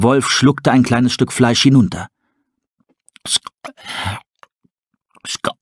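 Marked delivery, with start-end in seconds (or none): 3.2-5.5 gasping. Acted. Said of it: "keuchte er".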